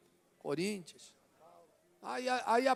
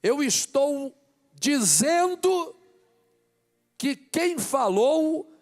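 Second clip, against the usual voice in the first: loud, high, impassioned preacher shouting to the church; fervent sermon climax, nearly shouted; preaching at full force; 6 semitones higher, 8 dB louder than usual. Acted. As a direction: build to fiery pulpit preaching, hammering each phrase.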